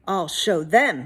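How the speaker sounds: a touch of angry determination; mild grumble to himself. Acted. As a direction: mutter a grudge. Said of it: "he said to himself".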